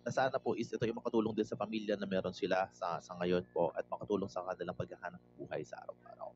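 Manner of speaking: host praying aloud before the business meeting, sincere and hushed; prayer. Acted. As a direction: lead the group in prayer, humbly. Leads a group prayer.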